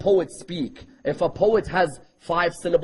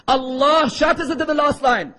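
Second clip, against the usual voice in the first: raised, forceful line correcting who did it with "Allah"; stress on Allah; 5 semitones higher than usual. Shown as a demonstration. Preacher corrects himself on who shattered it, stress on "Allah". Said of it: "Allah, not the Prophet".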